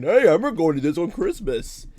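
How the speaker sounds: hammed-up fake cheery announcement; mock someone announcing a silly gimmick. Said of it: "a one-off joke of, of saying".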